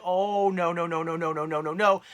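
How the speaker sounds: reliving horror, pleading no; horrified denial. Retold or imitated. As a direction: beg it not to be true. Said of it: "I'm like".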